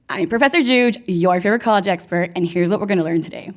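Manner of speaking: upbeat social media intro; signature intro. Shown as a demonstration. TikTok host giving her signature intro to graduates. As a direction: deliver your catchphrase like a clip. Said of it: "so here it goes".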